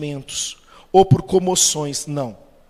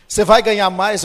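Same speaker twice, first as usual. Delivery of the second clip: raised, louder startled question; surprised boss; 5 semitones higher, 8 dB louder than usual. Retold or imitated. Boss surprised by his employee quitting, raised voice. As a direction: boss caught off guard by resignation.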